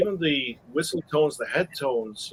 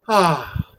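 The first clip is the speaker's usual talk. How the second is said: sighing ah; 4 dB louder than usual. Shown as a demonstration. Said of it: "You wanna feel that sigh".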